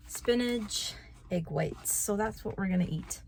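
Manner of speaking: talking while chewing gum; words around a piece of gum. Real, not acted. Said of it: "I have a piece of gum in my mouth".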